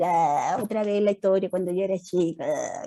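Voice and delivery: a hint of a fed-up kid imitating mum; bored kid mocking. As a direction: roll your eyes at the same old story, lightly. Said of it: "y el hijo va a decir".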